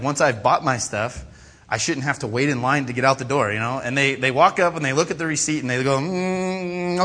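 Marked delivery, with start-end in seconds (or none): 6.0-7.0 high, drawn-out "mm"; mock-scrutinizing hum; checker's pondering hum. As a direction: hum as if scanning a receipt. Imitates receipt checker looking.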